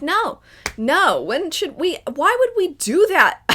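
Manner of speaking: frustrated no, no, why would we; exasperated protest. Retold or imitated. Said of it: "And I'm like".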